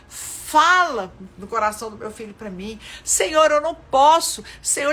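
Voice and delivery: preacher acting out a loud desperate prayer; fervent loud prayer. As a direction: cry out to God with full force. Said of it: "é pra eu ir pra Deus e falar".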